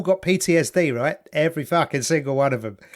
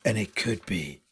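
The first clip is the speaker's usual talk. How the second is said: much lower, softer documentary narrator; sexy narrator voice; 7 semitones lower, 3 dB quieter than usual. Retold or imitated. Imitating the documentary narrator cutting in, low and soft. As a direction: purr it like a smooth TV narrator. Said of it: "sexy narrator voice".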